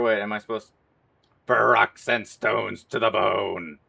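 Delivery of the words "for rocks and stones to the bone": slow battle cry; soldier impression. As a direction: chant it like a soldier. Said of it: "my stinking soldier impression".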